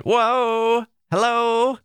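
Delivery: very high, held exclamations; high-pitched sing-out greeting; voiced exclamation marks. Shown as a demonstration. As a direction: call it out playfully, way up high. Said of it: "That's how I hear it in my head".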